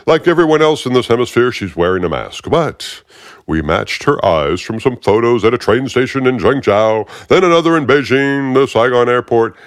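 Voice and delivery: the smug agent's grating voice; aggravating Fishburne voice. Acted. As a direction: talk down to him like you own the room. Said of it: "that really aggravating voice".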